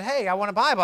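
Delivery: hailing someone with a request; acted loud demand. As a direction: call out loudly to a store clerk. Acting out himself shopping at Sam's.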